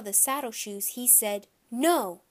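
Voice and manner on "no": put-on toddler refusing. A narrator's reading. Toddler refusing new shoes.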